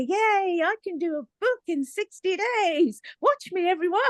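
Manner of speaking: imitating her own manic post; manic cheer. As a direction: announce it like you're unstoppable. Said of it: "I put out on social media".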